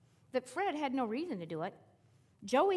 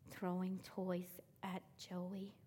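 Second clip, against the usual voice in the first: slow reluctant answer; 4 semitones lower, 9 dB quieter, much slower than usual. Retold or imitated. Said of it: "say it louder".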